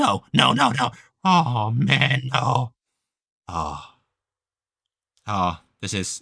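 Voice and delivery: very slow, drawn-out, horrified, panicked voice. Voicing a character touching his face after a loud yelp: panicked character dismay. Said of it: "feels up his face, like".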